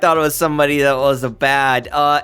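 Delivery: flustered excited Alok. Acted. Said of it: "And Alok goes".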